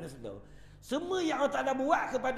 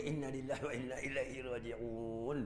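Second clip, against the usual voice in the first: low, soft, unhurried recital; calm believer; 11 semitones lower, 8 dB quieter than usual. Acted. Preacher voicing a calm believer, low and soft. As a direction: say it with calm acceptance.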